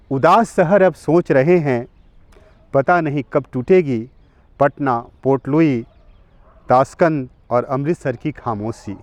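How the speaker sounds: measured declamation with pauses between phrases; poem recitation. Acted. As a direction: recite free verse solemnly, letting each line stand, repeated lines lifted. Recites own poem to listeners.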